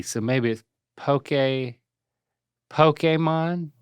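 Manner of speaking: slow sounded-out Pokémon with long eh; sounding out words. Shown as a demonstration. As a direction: drawl "Pokemon" as POH-keh-mon. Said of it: "It's got that thing over the E".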